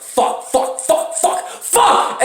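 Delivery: whispered panicked curses; whispered fuck fuck fuck; whispered swearing. Retold or imitated. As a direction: hiss the swears under breath.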